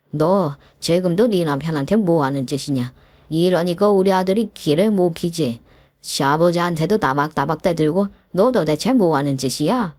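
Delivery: a hint of a gruff old father scolding his daughter-in-law; mild gruff scolding, understated; angry father-in-law. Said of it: "아버님이 대뜸 화를 내는".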